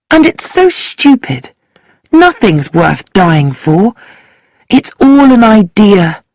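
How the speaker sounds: lightly voiced angry girl railing at patriotism; bitter young woman. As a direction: intense girl's voice, mildly heated. Sheila voiced in story.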